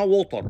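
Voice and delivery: ووتر as "wo-tar" with hard t; Arabic-style water with a full r; wrong pronunciation. Shown as a demonstration. Teacher rejecting an invented word, wrong pronunciation. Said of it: "مفيش حاجة اسمها ووتر".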